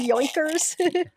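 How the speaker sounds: high, hammed-up Boston twist on Yoinkers; mock Boston Yankees. Host mocks the Yankees name in a Boston accent, hammed-up. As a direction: sneer it like a Red Sox fan in Boston accent.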